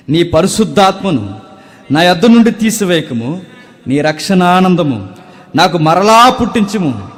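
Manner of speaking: loud, high, impassioned sermon voice; fervent preaching. Acted. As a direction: proclaim the psalm to the whole church. Preaching the psalm verse.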